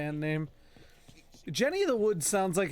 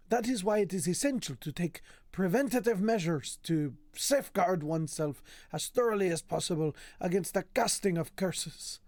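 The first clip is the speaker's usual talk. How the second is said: put-on lilting, accented reading of a learned treatise; affected lecturer's voice; improvised put-on voice. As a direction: read the scholarly text in an odd invented accent. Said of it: "I have no idea what this voice is".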